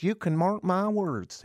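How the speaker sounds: a mocking preacher's doom voice; mock solemn preacher. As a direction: ham up the pastor's prophecy. Quoting the pastor's warning.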